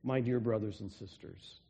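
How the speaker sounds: a touch of tender affection in the greeting; loving, affectionate. Retold or imitated. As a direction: say it gently, like to family. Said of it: "there's a loving graciousness here".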